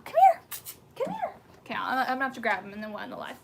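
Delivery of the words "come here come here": very high, loud urgent call; high pet voice. Real, not acted. Owner calling her puppy before he jumps, high pet voice. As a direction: squeak it out to stop the dog.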